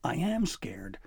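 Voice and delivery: frightened breathy whisper; a trapped boy whispering his fear; scared whisper. Acted. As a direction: admit the fear in a hushed whisper. Boy trapped, trolls approaching.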